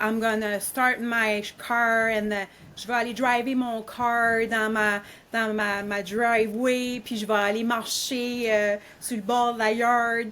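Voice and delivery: light chiac Acadian accent, mixing English into French. Shown as a demonstration. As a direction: casually slip English words into Acadian French, chiac style. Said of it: "Acadian is like, uh, they talk".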